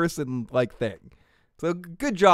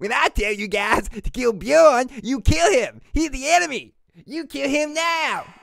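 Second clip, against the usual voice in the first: put-on high-pitched cartoon kid voice; 8 semitones higher, 3 dB louder than usual. Retelling a character ordering the others to kill Bjorn: Ivar as Cartman. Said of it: "turn Ivar into Cartman".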